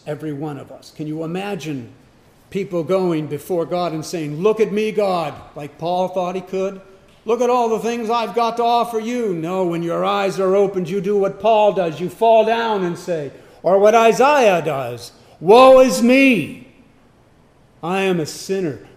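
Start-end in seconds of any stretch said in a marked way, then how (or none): 4.4-5.3 boastful plea. Retold or imitated. Voicing proud people before God. 7.2-9.3 higher, quicker boasting plea; mock boast. A preacher mimics a proud person bragging to God, boastful and quick. 15.4-18.9 anguished lament. Retold or imitated. Preacher voices Isaiah crying out in despair, loud lament.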